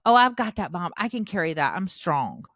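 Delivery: put-on bright, loud helpful kid voice; eager child offering help. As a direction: chirp it like a proud little helper. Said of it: "They've watched you help".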